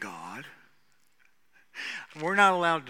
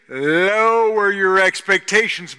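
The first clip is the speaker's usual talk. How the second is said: loud, slow, higher proclamation; forceful drawn-out pulpit cry; emphatic preaching; 6 semitones higher, 13 dB louder, slower than usual. Real, not acted. Same advice repeated at full force.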